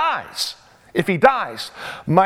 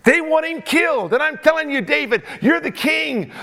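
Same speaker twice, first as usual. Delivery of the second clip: voiced widow pleading, pitched up; 5 semitones higher than usual. Preacher playing the widow begging King David, rising pitch. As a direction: beg the king for justice.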